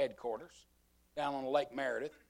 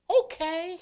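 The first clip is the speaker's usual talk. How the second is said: laughing okay; 10 dB louder than usual. Retold or imitated. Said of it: "And you know what I said?".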